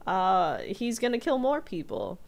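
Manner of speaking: mock urgent. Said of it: "Flynn is like".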